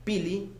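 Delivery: "Pili" in two even beats. Shown as a demonstration. Teacher showing students two beats, "Pili" in two beats. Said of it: "Con dos golpes de sonido".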